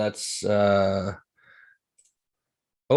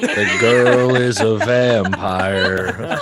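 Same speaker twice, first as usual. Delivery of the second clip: laughing; 7 dB louder, much slower than usual. Real, not acted. Player laughs at the reveal.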